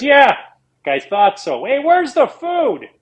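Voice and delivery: high, slow mock groggy voice; groggy manager. Manager fresh from a nap asking for food, slow high mock drawl. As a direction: play the just-woken boss, dragging the words. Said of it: "and he goes".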